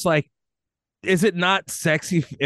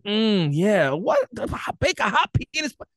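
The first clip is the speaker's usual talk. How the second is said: put-on overreact like a hyped boyfriend; mock excited boyfriend; 7 semitones higher than usual. Boyfriend answering his girlfriend's pie line, hammed-up shouting. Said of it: "It's like".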